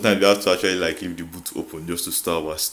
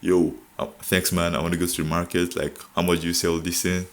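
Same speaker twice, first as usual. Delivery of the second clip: mock posh English. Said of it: "if I speak, like, posh English".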